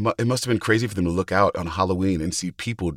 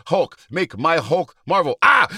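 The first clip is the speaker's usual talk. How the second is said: Hulk voice; 6 semitones higher, 4 dB louder than usual. Pretend. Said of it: "your Hulk self".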